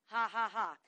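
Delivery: deliberate acted "ha ha ha"; measured, staged laughter; God's mocking laugh. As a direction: laugh in scorn at a beaten enemy. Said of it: "The Lord laughs at the enemy".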